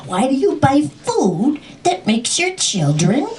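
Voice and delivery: high-pitched mock scolding; shrieky complaint without real volume; retold yelling. Dragon yelling at mother, high mock outrage. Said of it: "Dragon yells at my mother".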